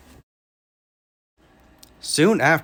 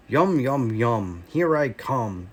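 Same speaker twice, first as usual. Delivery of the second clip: gloating wolf; 3 semitones lower, slower than usual. Acted. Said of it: "laughed the wolf".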